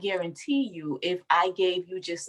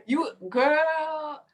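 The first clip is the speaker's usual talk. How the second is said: laughing; 8 semitones higher than usual. Real, not acted. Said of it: "your little nine-year-old self could not conceive".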